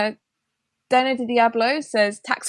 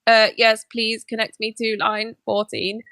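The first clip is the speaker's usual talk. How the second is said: robot voice; 2 semitones higher, slower than usual. Retold or imitated. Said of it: "doing the Dalek voice".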